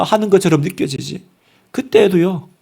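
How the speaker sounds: ordinary talk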